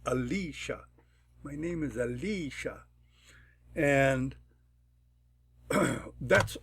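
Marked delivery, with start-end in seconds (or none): 0.0-0.8 Alicia with the middle "lee" stressed; second-syllable stress. Shown as a demonstration. Teacher showing the accent they like, Alicia stressed on its second syllable. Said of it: "I like it to accent Lee". 1.4-2.8 Alicia stressed on the middle "lee"; accent the second syllable of Alicia. Shown as a demonstration. Teacher giving an example sentence, Alicia stressed on its second syllable. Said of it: "I like it to accent Lee".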